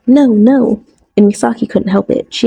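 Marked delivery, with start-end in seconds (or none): 0.1-0.8 playful shriek. A narrator's reading. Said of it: "Ryota shrieked".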